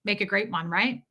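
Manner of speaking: mock him with false agreement. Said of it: "I was mocking him".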